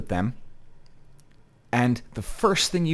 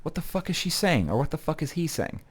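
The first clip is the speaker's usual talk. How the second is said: baffled; 3 semitones higher, 4 dB quieter than usual. Retold or imitated. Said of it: "you're kinda going".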